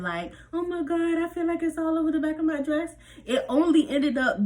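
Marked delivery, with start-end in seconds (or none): 0.5-2.9 high, fast mock panic with a laugh; exaggerated panic. Teen mocks her own prom-night panic, hammed-up. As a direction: overdo the panic, laughing at herself. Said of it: "screaming and crying and exaggerating".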